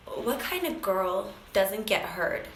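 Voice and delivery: slow, choked up quote; emotional. Real, not acted. Coach asks a painful question on the phone, retold slowly and emotionally. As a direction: say it slowly, holding back emotion. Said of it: "Sorry, I get a little emotional".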